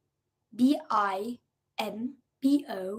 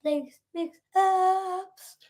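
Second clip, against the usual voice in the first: segment announcer; 8 semitones higher, much slower than usual. Acted. Announcing the segment, slow and high.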